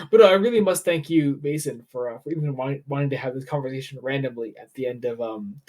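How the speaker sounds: tipsy, rambling and stumbling over words. Real, not acted. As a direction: talk like you've had a few too many. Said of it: "whatever the fuck my drunken state is".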